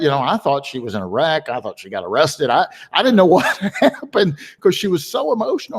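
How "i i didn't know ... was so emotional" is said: laughing. Real, not acted. Laughing while telling daughter story.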